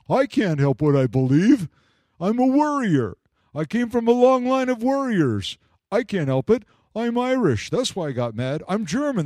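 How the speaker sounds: hammed-up defiant boasting, a claim of heritage then a sulky excuse; mock excuse-maker. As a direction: play the self-justifying hothead, half in jest. Mock quote of excuse-making believers.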